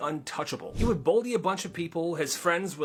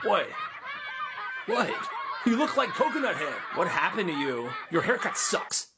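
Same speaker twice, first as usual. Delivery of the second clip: mocking laughter; 4 semitones higher, 4 dB quieter than usual. Kids mocking the haircut.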